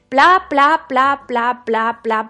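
loud, dismissive blah-blah patter; mock blah blah. Mocking his own arguments to someone who disagrees, loud mock blah-blah. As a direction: rattle off the arguments like empty noise. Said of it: "yo digo".

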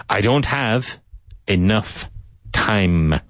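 time ending on a long strong M. Shown as a demonstration. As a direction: hold the M at the end of time. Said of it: "with a strong M".

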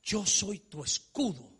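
slow, level voice of God; God's calm promise. Acted. Preacher voicing God reassuring Abraham, slow and calm. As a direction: lay it down slowly and gently as God. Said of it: "Y le dice".

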